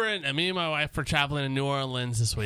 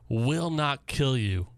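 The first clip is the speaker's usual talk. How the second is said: slow deadpan reading; 2 semitones lower, much slower than usual. Retold or imitated. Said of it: "all it says is".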